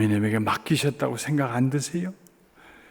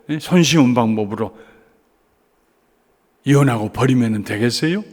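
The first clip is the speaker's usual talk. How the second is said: firm, louder scolding; bold rebuke; 4 dB louder than usual. Retold or imitated. Pastor sternly confronting the wife about divorce, firm rebuke. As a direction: lay down the truth firmly. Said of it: "입에서 그냥 당찬 소리가 나갈 때가".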